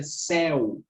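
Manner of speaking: CÉU with a stretched open É; teacher's demonstration of open "céu"; open vowel. Shown as a demonstration. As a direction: let the É in "céu" ring open as "eh". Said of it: "é um som aberto".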